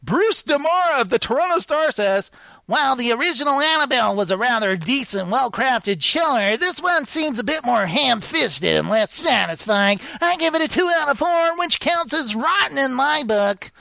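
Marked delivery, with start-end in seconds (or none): 2.7-13.7 lightly put-on professor voice, higher; Professor Frank voice. Reading a critic's review to his co-host in a mild professor voice. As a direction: read it like a stuffy professor. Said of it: "Sounds like Professor Frank".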